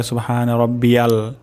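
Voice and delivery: "রব্বিয়াল" with an open "yal" ending; common mispronunciation. Shown as a demonstration. Teacher showing learners a common mistake, "রব্বিয়াল" ending in open yal. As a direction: say "রব্বিয়াল" quickly, last vowel as a. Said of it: "অনেকের ক্ষেত্রে এটা হয়ে যেতে পারে".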